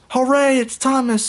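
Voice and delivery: a little creature cheering the train. A narrator's reading. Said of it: "said Wubsy".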